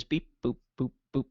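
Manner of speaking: lightly voiced electronic beeps; mock click track, spoken as beep and boops; imitated click-track beeps. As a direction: count out beeps and boops like a metronome. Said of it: "all you'd hear is".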